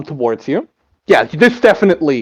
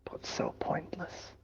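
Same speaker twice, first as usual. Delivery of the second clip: whispering; 3 semitones higher, 24 dB quieter than usual. Acted. Entity whispers a taunt.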